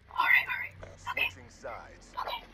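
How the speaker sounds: soft unvoiced whisper. Real, not acted. Hiding gamer settling down, whispering. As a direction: whisper it to yourself. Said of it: "I don't know why I'm whispering".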